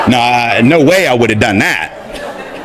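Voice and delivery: slow, laughing through the words. Real, not acted. Speaker quoting the friend's joke to the audience, laughing. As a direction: chuckle while you deny it.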